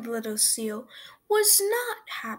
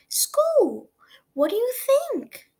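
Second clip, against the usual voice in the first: put-on high, loud, cheeky kid; know-it-all boy; 13 semitones higher, 8 dB louder than usual. A narrator's reading. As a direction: say it like a smug little boy. Boy answers Sammy.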